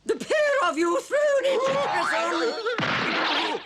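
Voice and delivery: slow, loud, menacing pronouncement; furious royal decree. Acted. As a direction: spell out each word like a death sentence. Queen sentences the guards.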